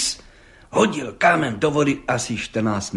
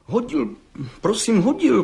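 much higher, frightened stammer; young defendant stammers to the judge, much higher and scared; 10 semitones higher than usual. A narrator's reading. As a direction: stumble over the words in panic. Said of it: "koktal mladý".

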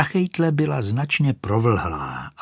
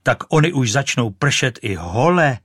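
startled goose; 3 semitones higher, 5 dB louder than usual. Acted. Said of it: "zvolala husa".

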